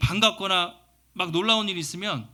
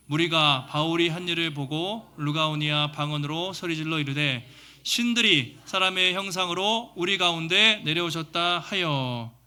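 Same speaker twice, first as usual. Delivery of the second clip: measured reading of a Bible verse aloud; scripture reading. Acted. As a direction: read the passage out to the congregation.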